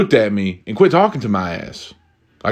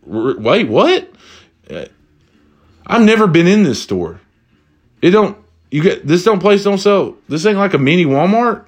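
confused, higher-pitched ordinary guy; out of character; 7 semitones higher than usual. Retold or imitated. Costumed man realizes he's in the wrong store, confused high voice. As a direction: superhero voice dropped, baffled and high. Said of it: "drops the whole fucking Batman voice".

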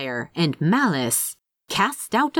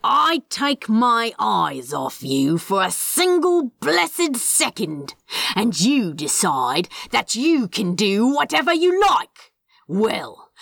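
threatening. Acted. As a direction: lean into the threat. Crowley threatens his plants.

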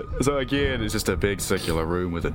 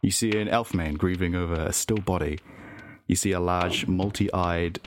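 story narration. Acted. GM narrates vision.

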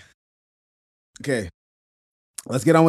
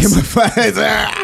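laughing shout; slower than usual. Real, not acted.

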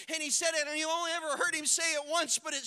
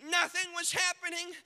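preaching shout; 5 semitones higher than usual. Acted. Preacher builds to climax.

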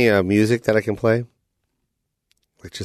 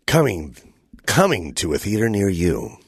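movie trailer voice; 2 semitones lower than usual. Retold or imitated. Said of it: "the guy who does all the movie trailers".

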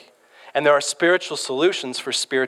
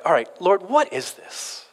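higher-pitched, puzzled appeal to God; bewildered prayer; 5 semitones higher than usual. Retold or imitated. Grown son in bed questions the Lord, bewildered. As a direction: act out asking God for an explanation.

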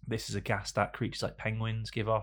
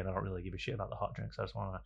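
softer, fast muttered thought; inner thought; 7 dB quieter, faster than usual. Retold or imitated. The date's secret thoughts, softer and quick. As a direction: rush it under the breath. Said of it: "in her head she's thinking".

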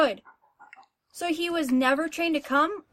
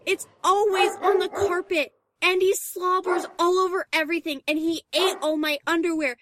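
exasperated venting. Acted. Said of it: "Calm down".

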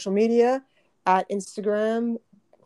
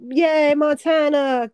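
excited cheer; 5 semitones higher, 6 dB louder, much slower than usual. Real, not acted. Cheering a state's new law.

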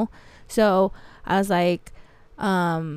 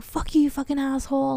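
retold parting insult; 6 semitones higher than usual.

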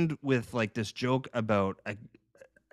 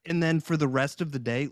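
ordinary talk

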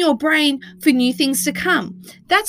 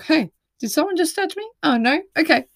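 a lightly voiced clueless wall; dopey brick wall; 4 semitones higher than usual. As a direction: play an oblivious brick wall.

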